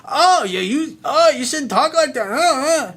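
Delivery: high, loud, scolding put-on woman's voice; mocking a prissy woman. Coach imitating a woman scolding his F-bombs, high and prissy. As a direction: play up a woman chiding his swearing. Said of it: "and she's like".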